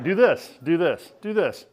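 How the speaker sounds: imitating her bossy instructions. Partner giving eager instructions.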